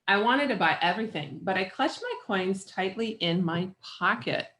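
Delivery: measured picture-book read-aloud; story narration. A narrator's reading. Reader shares a picture book with children, story narration.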